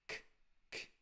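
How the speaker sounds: k, k said as a hard English-like k; wrong k sound. Shown as a demonstration. Teacher demonstrates the mistake to avoid. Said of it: "não falar K aqui".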